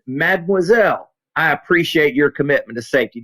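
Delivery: lightly put-on French charm, savouring the word appreciate; a hint of a French gentleman addressing the young lady; mock French accent. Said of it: "she was French".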